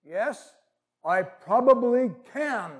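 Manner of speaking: slow, calm voice from above; lightly voiced deep, unhurried voice. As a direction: answer slowly, stretching the words out. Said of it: "this very deep voice".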